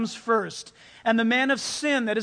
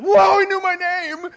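higher, louder, slow awed gasp; amazed kids; 7 semitones higher, 8 dB louder than usual. Retold or imitated. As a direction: marvel like a wide-eyed child. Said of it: "And they went".

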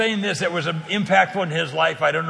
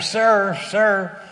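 calling out; 3 semitones higher, 3 dB louder than usual. Retold or imitated. Lady calling after him at taxi.

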